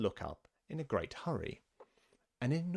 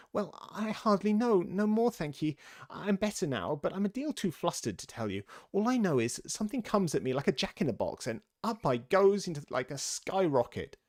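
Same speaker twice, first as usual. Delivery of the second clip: high, squeaky little lizard; small creature's pitched-up, dazed voice; feeble, squeaking voice; 8 semitones higher, 3 dB louder than usual. A narrator's reading. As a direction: squeak it out, weak and flustered. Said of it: "a little feeble, squeaking voice".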